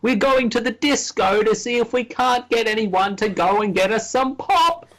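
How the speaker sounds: high, hammed-up bad British; mangled British-American accent. Co-host parodying British clubbers, high mangled British-American accent. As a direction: strain for British, landing half American. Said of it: "a mix between British and American".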